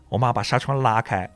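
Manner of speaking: usual speaking voice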